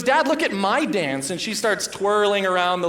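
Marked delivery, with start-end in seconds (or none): 0.0-1.3 put-on high, slow, eager child voice; four-year-old voice. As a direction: announce your dance to dad. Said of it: "and she goes".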